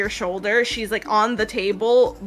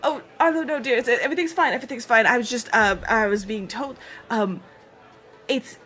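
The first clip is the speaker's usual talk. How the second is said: put-on flustered old man; 3 semitones higher than usual. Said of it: "is like".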